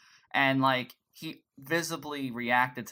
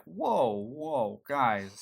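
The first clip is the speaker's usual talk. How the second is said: Charlie; much slower than usual. Retold or imitated. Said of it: "he's just like".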